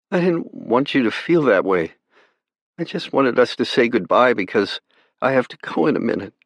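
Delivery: put-on a young girl begging her brother not to despair; pleading girl. A narrator's reading. Sister pleading with her brother over the radio, young and gentle.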